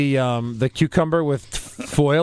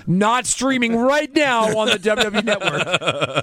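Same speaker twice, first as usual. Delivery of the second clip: slow, higher pitchman voice; ad read; 5 semitones higher, slower than usual. Pretend. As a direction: announce it like a slow commercial. Mock ad read.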